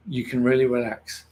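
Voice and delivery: words stretched by a yawn. Real, not acted. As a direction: talk through a yawn. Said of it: "I'm yawning today".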